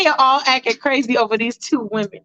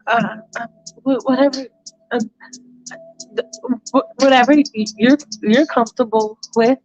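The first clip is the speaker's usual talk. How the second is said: stumbling, restarting every word; Michael stammers his answer to Allison; flustered stammer. Retold or imitated. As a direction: trip over the words, flustered.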